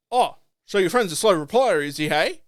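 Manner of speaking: mildly sarcastic imitation; mock a customer lightly with a dismissive question; condescending. Shop worker questioning a customer about his friend, mildly condescending. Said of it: "he was condescending, sarcastic, like, like, really dismissive".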